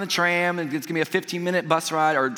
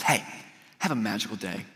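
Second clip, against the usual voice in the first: low, softer send-off; retold driver's farewell; 7 semitones lower, 6 dB quieter than usual. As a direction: imitate a bus driver quietly wishing guests well.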